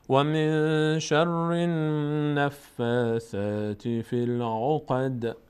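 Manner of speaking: drawn-out chant; tajweed chant; slow recitation. Shown as a demonstration. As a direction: recite slowly. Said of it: "recitation example".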